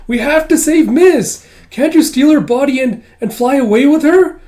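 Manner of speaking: desperate high-pitched screaming; Kippa. Acted. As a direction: scream a frantic plea at full voice. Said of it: "Kippa still screaming".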